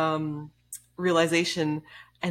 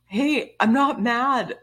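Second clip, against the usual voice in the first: defensive captain; 8 semitones higher, 6 dB louder, slower than usual. Retold or imitated. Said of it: "he's like".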